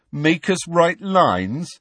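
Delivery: high, slow mocking taunt; smirking. A narrator's reading. George teases Hermione about punishment, smirking. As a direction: draw it out with a smirk.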